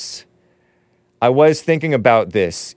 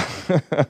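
eagle screech; 5 semitones higher, 4 dB quieter than usual. Pretend. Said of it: "That's not an eagle at all".

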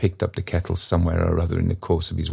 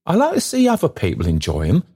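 speaking loud; 11 semitones higher, 3 dB louder, faster than usual. A narrator's reading. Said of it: "speaking very loud to impress the fact".

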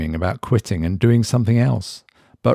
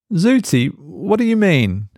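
uneasy question; 10 semitones higher than usual. A narrator's reading. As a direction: Mark higher, uneasy and questioning. Mark unnerved by device.

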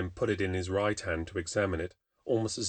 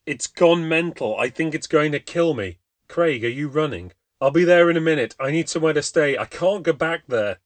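higher, louder, frantic; terrified, gasping for air; panicked and breathless; 4 semitones higher, 6 dB louder than usual. A narrator's reading. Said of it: "struggling so hard to catch his breath".

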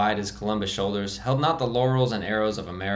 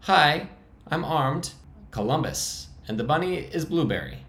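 very high voice; 7 semitones higher than usual. Acted. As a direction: greet him from behind a rifle, pitched up high. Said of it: "spoke again with a very high voice".

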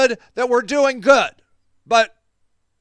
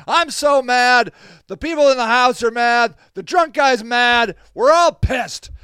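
retold anger. Retelling a heated shouting match.

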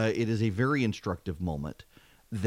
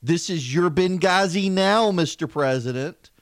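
mock taunt; 5 semitones higher, 5 dB louder than usual. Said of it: "and what does the group say".

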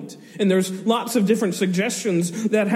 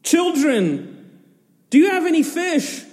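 calling out; 8 semitones higher than usual. Retold or imitated. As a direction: voice raised high, calling across water. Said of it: "shouting to them".

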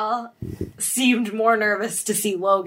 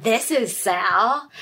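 slow, drawn-out mock disbelief; shocked disbelief; much slower than usual. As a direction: imitate someone shocked, stretching each word. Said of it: "and was, like, shocked".

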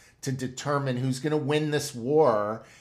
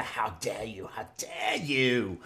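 Greta Thunberg; 4 dB quieter than usual. Retold or imitated. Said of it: "she had the".

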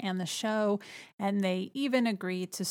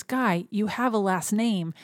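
calming; 3 dB louder than usual. Retold or imitated. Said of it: "tries to calm him down".

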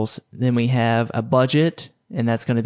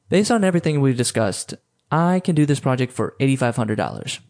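firm, even, no hedging, then silence; confident quote. Shown as a demonstration. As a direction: say the price and shut up. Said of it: "here's the difference".

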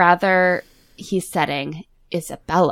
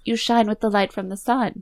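higher, voiced mock Italian accent; Isabella's bad Italian accent; 4 semitones higher than usual. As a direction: quote it pointedly in a fake Italian accent. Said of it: "in the worst bad Italian accent".

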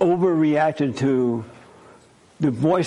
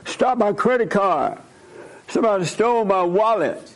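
mock-panicked, higher-pitched phone plea; freaking out; 6 semitones higher than usual. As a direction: act out a frantic call to the bank. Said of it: "once you freak out like that".

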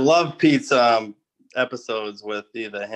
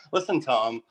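laughing; 5 semitones higher, much slower than usual. Real, not acted. Laughing while mixing up names.

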